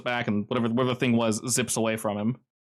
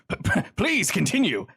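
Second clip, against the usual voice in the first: mock stutter; 8 semitones higher than usual.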